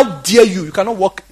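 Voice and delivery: high, loud, furious rebuke of the leaving crowd; retold angry rebuke. Pastor rebukes the crowd walking out on God, loud and high. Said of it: "He said".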